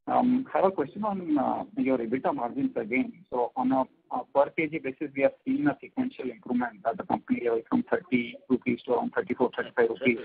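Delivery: scrambled, faint phone line; breaking up on a bad connection; garbled voice. Real, not acted. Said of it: "your voice is garbled".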